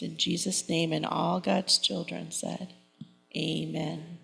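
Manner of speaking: earnest spoken prayer to the congregation; leading a church prayer. Acted. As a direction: pray it aloud for the children. Leads the children in prayer.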